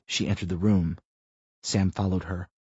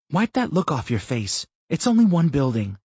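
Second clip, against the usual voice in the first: firm rebuke; 7 semitones higher than usual. A narrator's reading. Tina scolds Sam at the door.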